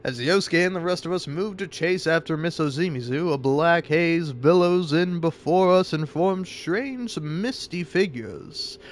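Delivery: measured narration, slowing toward the end; story narration. A narrator's reading. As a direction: read the story aloud, drawing out the mysterious reveal. Reads game narration aloud.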